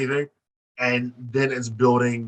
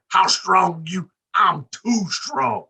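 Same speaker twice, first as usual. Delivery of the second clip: slow, drawn-out quoted lines, pitched higher; retold movie exchange; 4 semitones higher, much slower than usual. Fan retells Remember the Titans dialogue, slow and emphatic. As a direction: play both teammates, stretching each word. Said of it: "He said".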